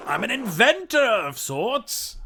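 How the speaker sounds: proud eccentric mad scientist. Acted. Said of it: "like a mad scientist voice".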